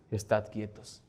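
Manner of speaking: "Estad quietos" said low and soft. Shown as a demonstration. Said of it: "Memoriza este pasaje".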